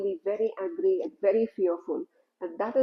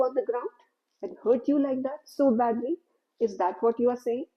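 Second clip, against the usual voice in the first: louder, astonished outburst; exclaiming; 4 dB louder than usual. Acted. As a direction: exclaim it in disbelief at the boys' nerve. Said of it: "He exclaimed".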